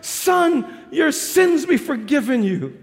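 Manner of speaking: slow, kind voice at normal level; kind tender words. Acted. Jesus to the paralysed man, kind tender words. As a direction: speak the pardon kindly, unhurried. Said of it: "with kind, tender words".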